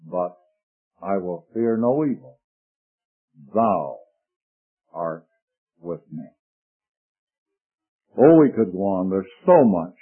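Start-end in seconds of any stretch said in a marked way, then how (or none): 0.0-6.3 low, soft, fading reverent line; hushed prayer. Acted. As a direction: pray it quietly, almost to yourself. Quoting psalm as prayer.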